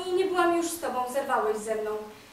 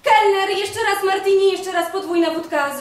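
calling out; 3 semitones higher, 6 dB louder than usual. Acted. Ordering again from waiter.

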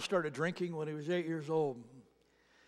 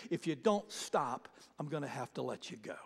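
hushed warning; 5 semitones lower, 6 dB quieter than usual. Retold or imitated. Mysterious voice warns addict.

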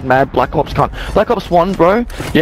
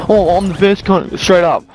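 mocking imitation; 4 semitones higher, slower than usual. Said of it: "says you, the big note".

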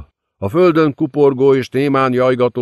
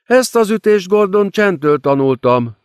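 laughing demon queen; 10 semitones higher than usual. A narrator's reading. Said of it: "kacagott a démon királynő".

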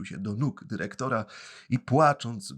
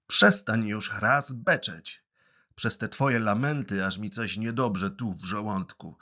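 shouting at Pinocchio. Acted. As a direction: bark at the crying puppet to stop. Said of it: "krzyknął na Pinokia".

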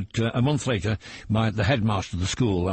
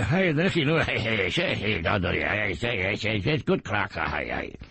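put-on Geordie accent. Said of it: "So do the Geordie".

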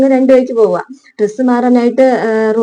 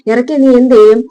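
louder, retold angry challenge; angry retort; 5 dB louder than usual. Shyam threatening Shruti, retold angry challenge. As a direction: snap the threat back in mock anger. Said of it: "ശ്യാമിനാകെ ദേഷ്യം വന്നിട്ട്".

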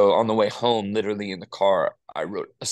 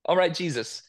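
lukewarm response; 5 semitones higher than usual. Retold or imitated. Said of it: "It was just like".

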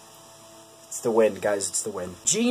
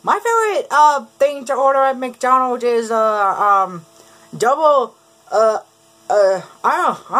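a bad Linda Belcher complaining about her burger; 3 semitones higher than usual. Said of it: "a horrible Linda Belcher voice".

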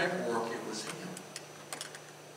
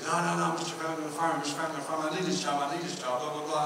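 retold fretting, tumbling into blah-blah-blah; mock panicked pleading; 3 semitones higher, faster than usual. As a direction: rattle it off in a higher, hurried babble. Retelling a worker's panicked plea.

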